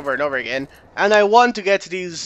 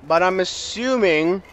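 "assuming" leaned on and drawn out; stress on ASSUMING; slower than usual. Shown as a demonstration. Gamer guessing aloud to viewers, heavy emphasis on "assuming". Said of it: "putting a heavy emphasis on the word assuming".

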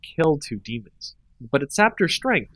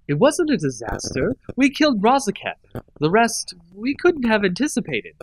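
calm reason; 8 semitones higher than usual. A narrator's reading. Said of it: "all calm reason".

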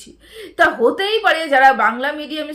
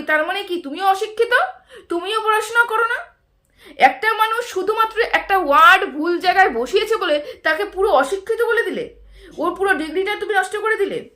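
raised pitch, half-laughing outrage; laughing indignation; 5 semitones higher than usual. Real, not acted. Vlogger mocking a critic's logic, high and half-laughing. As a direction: laugh at how absurd his claim is.

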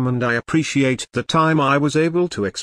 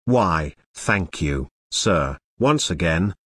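professor voice; 6 semitones lower than usual. Pretend. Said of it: "Professor Wormlover".

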